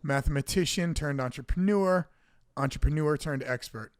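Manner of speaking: punched opening, then measured list of titles; mock-grand announcer intro. Host introduces Johnny Glasses, mock-grand announcer style. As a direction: build up the co-host like a ring announcer.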